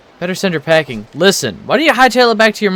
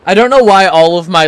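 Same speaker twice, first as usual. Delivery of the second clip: put-on old man voice; 3 semitones higher, 4 dB louder than usual. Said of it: "old man voices tend to slip into Ford Cruller".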